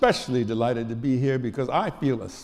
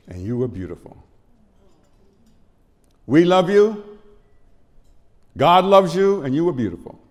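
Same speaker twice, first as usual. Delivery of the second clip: nuns; 7 dB louder than usual. Retold or imitated. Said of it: "the nun said to me".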